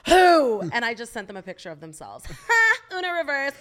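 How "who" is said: loud high "Who?" of disbelief; all-caps who. Retold or imitated. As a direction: shout "Who?" in shock, pitched up. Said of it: "in all caps are like".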